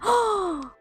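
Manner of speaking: high gasp of excitement; excited gasp. Real, not acted. Player seeing the placed dinosaur egg, excited gasp. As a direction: gasp in delight.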